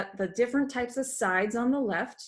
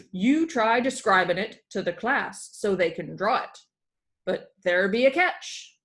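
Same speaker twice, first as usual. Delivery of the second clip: lightly voiced pirate schoolteacher, a bit louder; booming classroom pirate, "here be" and "'tis"; a hint of a hearty pirate lecturing; pirate teacher; 5 dB louder than usual. Pirate teacher sets up game.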